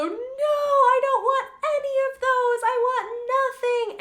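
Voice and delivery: put-on high, slow whining little kid; high-pitched drawn-out toddler no; whiny toddler refusal. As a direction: whine it like a stubborn toddler. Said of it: "he'll go".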